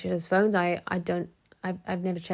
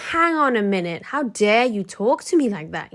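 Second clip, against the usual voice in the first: retold anger; 5 dB louder than usual. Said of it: "I lost my temper".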